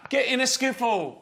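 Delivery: put-on hammy English accent. Host describing a night out in a mock English accent. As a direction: keep up a bad English accent. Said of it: "Can't I do an English accent".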